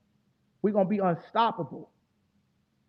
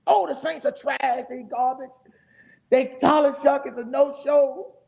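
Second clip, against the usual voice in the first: higher, slow, sneering impression of a doubter; higher, drawn-out mock of a rival fan; mocking hater voice; 7 semitones higher, slower than usual. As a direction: mimic the trash-talking critics with scorn. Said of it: "I've been warning people".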